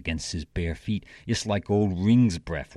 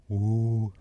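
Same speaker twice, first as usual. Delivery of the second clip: higher, drawn-out bear's "woo"; bear growl; 5 semitones higher, 3 dB louder than usual. Acted. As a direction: imitate the bear's growling call. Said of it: "the old bear went".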